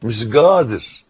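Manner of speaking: قادر said with a hard g, "gadir", in Saidi Arabic; Upper Egyptian accent. Shown as a demonstration. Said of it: "بالصعيدي،". (بلهجة صعيدية: "مش گادر")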